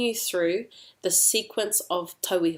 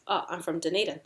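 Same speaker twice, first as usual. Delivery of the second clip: low, soft answer falling on DUNEDIN; responding to a question; 3 semitones lower, 5 dB quieter, faster than usual. Shown as a demonstration. Answering where you're from, soft falling response on DUNEDIN. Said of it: "when you're responding".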